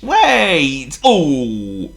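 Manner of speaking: high, loud truck plea; whining trucks. Acted. Trucks pleading with Thomas to wait. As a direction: whine at the engine to wait.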